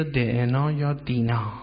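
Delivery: "دعنا" then "دینا", carefully sounded as da-ena, then dina; old pronunciation shown. Shown as a demonstration. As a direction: show "دعنا" with two separate vowels, then "دینا".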